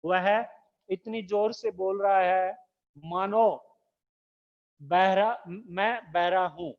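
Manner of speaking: इतनी जोर से बोल रहा है मानो said slowly, word by word; slow it down so the class can write इतनी जोर से बोल रहा है मानो; slow dictation. Shown as a demonstration. Teacher dictating इतनी जोर से बोल रहा है मानो to students, slowly. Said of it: "जैसे ये है".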